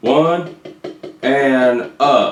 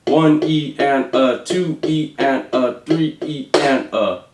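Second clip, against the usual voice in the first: slow counting along. Shown as a demonstration. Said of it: "So it's gonna go like this".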